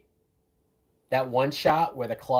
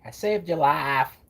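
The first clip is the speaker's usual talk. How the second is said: slow, drawn-out Mississippi accent imitation; a light, slow Mississippi accent impression; 5 semitones higher, 3 dB louder, slower than usual. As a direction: mimic Rogue's Mississippi drawl. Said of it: "the way Rogue talks with that accent".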